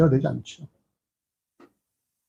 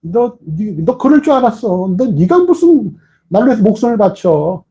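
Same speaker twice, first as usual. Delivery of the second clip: higher, exasperated scolding; scolding friend; 4 semitones higher than usual. Retold or imitated. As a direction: tell off a friend who failed you. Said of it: "이렇게 했을 것 같아".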